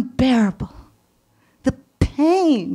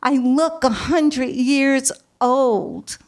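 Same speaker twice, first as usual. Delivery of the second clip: slow lament; 2 semitones higher, slower than usual. Retold or imitated. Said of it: "I say".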